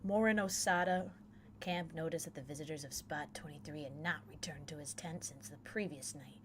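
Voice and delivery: even, measured reading of a case report; matter-of-fact incident report; report read-aloud. Acted. Reads a missing-person report aloud.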